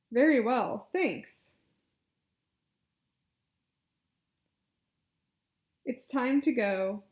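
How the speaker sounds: loud, carefully projected phrases; loud clear model phrases. Shown as a demonstration. Therapist models loud phrases to repeat. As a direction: project each phrase for the client to copy. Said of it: "you can just repeat after me".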